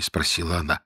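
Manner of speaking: plain reading voice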